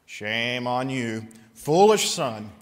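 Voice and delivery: scolding the prodigal; mock scolding. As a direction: chide the son. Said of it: "looking at that son and saying".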